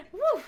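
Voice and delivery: high puffed-out whew; short high "whew"; real whew. Real, not acted. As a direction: blow out a breath to settle down. Catching breath after hiccup.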